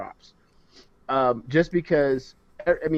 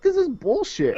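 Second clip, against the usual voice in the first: much higher, laughing through it; mock six-year-old indignation, laughing; laughing childhood outrage; 12 semitones higher than usual. Cohost retells his childhood disgust at Superman's plane, laughing. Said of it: "I was like".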